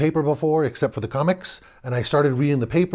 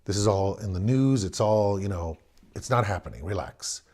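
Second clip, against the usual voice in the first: softer, lower, settling everyone down; head of house calming wife and son; father explaining calmly to wife and son; reassuring father; 3 semitones lower, 4 dB quieter than usual. Retold or imitated. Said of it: "head of the household".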